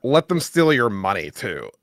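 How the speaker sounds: usual speaking voice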